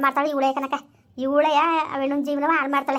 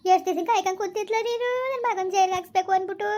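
higher, outraged reproach; bitter accusation; 6 semitones higher than usual. Acted. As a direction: hurl the blame at him.

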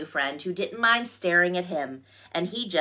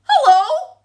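high, loud, cheery greeting; smiling bear; 10 dB louder than usual. A narrator's reading. Bear to ladybug family, smiling greeting. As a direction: sing out hello through a big smile. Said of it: "with a big smile on his face".

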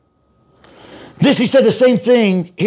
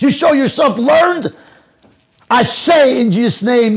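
angry shouting. Real, not acted. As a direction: shout him down in fury. Heated religious debate, shouting opponent down.

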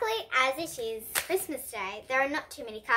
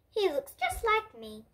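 a hint of a higher, amused Santa voice; lightly played jolly Santa; lightly voiced Santa; 7 semitones higher than usual. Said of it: "he laughs and tells the reindeer".

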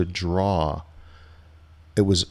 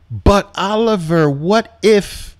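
much higher, louder whining plea; mock nervous trader; 10 semitones higher, 5 dB louder, slower than usual. Trader pleading with coach Oliver, high whiny mock worry. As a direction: play the student pestering the coach. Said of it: "two words that tells me you're suffering".

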